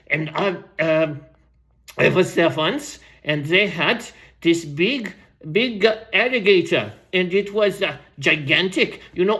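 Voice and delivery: lightly voiced rambling old storyteller; aging storyteller. Old storyteller tells the crowd about butterflies, lightly put-on voice. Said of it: "I'll go back to Random's voice".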